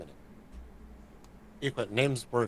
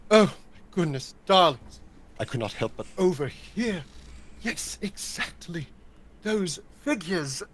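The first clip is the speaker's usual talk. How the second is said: frivolous noble; 2 semitones higher than usual. Acted. Akan greeting rich ladies, mildly put-on frivolous noble. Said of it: "something a little bit more frivolous".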